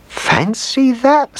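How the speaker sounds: put-on high, slow amazed old lady; astonished old woman. A narrator's reading. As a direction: draw out the wonder. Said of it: "said Old Mother Hubbard".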